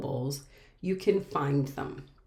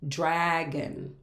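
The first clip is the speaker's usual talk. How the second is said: "dragon" stretched as draa-gon; syllable by syllable. Shown as a demonstration. Teacher showing the last two-syllable word, drawn into parts. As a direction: lengthen the first syllable of "dragon". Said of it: "We can clap out dragon".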